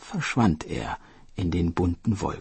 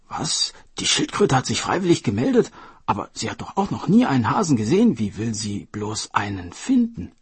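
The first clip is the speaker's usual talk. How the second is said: quick, higher, disbelieving chatter; astonished official; 3 semitones higher, 4 dB louder than usual. Acted. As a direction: gossip in surprise.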